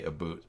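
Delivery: "a boot" for "about", with a long oo; mock Minnesotan pronunciation. Shown as a demonstration. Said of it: "more like a Minnesota accent than a Canadian".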